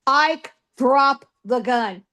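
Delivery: slow, deliberate retold command; stern order. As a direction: order him to drop it, word by word. Wyatt retold ordering Ike.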